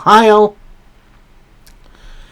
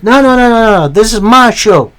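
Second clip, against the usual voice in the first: mock country-accent retort, a little higher; 3 semitones higher than usual. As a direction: cut someone off in a light country accent. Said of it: "I went country accent for Logan Paul".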